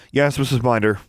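obedient schoolgirl. A narrator's reading. Alexandra answering the librarian's instructions, dutiful. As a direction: answer politely as a student. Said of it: "Alexandra said".

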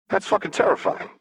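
high breathy whisper, half amused; whispered aside. Acted. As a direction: whisper it, wide-eyed. Echo reacts to Jinx.

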